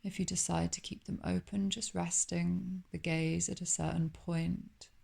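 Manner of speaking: unhurried yoga nidra guidance with long pauses; calm meditation guide, lingering on phrase endings; guided meditation. Acted. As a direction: welcome them gently into calm, leaving space between phrases. Guides relaxation.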